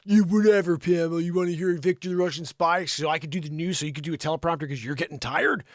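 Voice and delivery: quick, mock-dismissive rant. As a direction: brush her off, then nag her along. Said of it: "I should be like".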